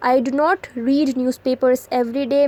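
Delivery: very slow, each word set apart; slow dictation read. Shown as a demonstration. Teacher reading an example sentence to students, very slow. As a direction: spell it out slowly for the class.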